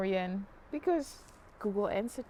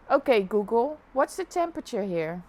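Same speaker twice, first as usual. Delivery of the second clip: repeating to voice assistant; 6 dB louder than usual. Real, not acted. Retrying voice assistant.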